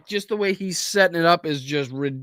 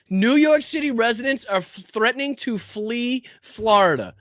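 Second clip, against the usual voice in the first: mocking repeat; 5 semitones higher than usual. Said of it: "repeating host's flub".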